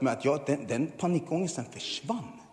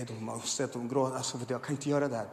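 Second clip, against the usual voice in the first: ordinary delivery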